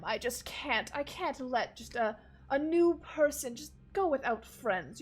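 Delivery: lightly voiced gushing host; jovial nobleman. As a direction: gush about your guests. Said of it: "gestures at Konami and goes".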